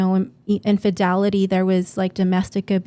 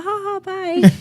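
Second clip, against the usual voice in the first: much higher, louder teasing laugh-bye; playful goodbye; 11 semitones higher, 7 dB louder than usual. Retold or imitated. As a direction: tease him as you drive off, high and loud. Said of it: "and I was like".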